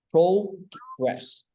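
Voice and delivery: "progress" drawn out in two parts, first part pitched high; syllables up and down. Shown as a demonstration. Teacher shows learner the rise and fall, syllables up and down. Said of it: "nhớ là có âm lên âm xuống".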